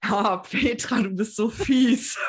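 slow, amused mock reproach; laughing tease. Real, not acted. S1 teasing Petra about her nod, slow amused laughing reproach.

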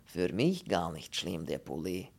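placid foreign voice in broken German; Polish character. Acted. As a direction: state your dislike in halting phrases. Pole speaking broken German.

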